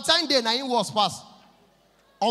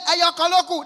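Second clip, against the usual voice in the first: high, loud vendor's call; imitated food seller calling out; street hawker's shout; 8 semitones higher, 8 dB louder than usual. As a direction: holler your wares out loud. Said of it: "Na she shout".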